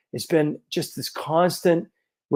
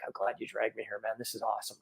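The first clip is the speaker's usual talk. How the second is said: much softer, low and hushed; quiet retold friend; 5 semitones lower, 15 dB quieter, faster than usual. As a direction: murmur it close, like a friend beside you. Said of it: "and he's like".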